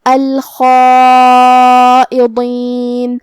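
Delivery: الخائضین chanted very slowly with a heavy, long-held khaa. Shown as a demonstration. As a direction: hold a full, heavy خا in الخائضین. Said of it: "دونوں حرف کو بھاری آواز میں پڑھیں گے". (الخائضین میں خا بھاری اور لمبی آواز میں)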